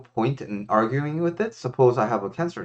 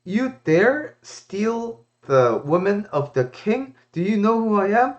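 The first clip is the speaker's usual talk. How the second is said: enraged king; 9 semitones higher than usual. Retold or imitated. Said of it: "And the king was enraged".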